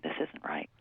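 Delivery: hushed, low and nearly voiceless; little inner voice. Retold or imitated. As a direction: drop right down for the voice inside. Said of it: "there's some little voice inside that's saying".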